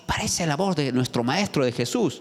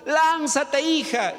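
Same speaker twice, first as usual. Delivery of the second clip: father calling out; 6 semitones higher than usual. Retold or imitated. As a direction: urge his daughter to jump, slowly. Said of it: "el papá le dijo por su nombre". (padre suplicando en voz alta a su hija)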